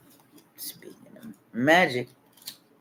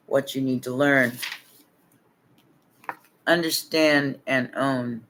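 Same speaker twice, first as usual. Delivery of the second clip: card reading. Acted. Reads oracle card text.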